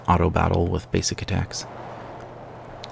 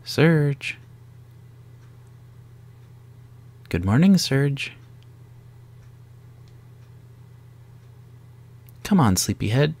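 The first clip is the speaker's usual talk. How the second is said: waking someone up; 8 semitones higher than usual. Acted. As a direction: rouse a sleepyhead. Character waking up Surge.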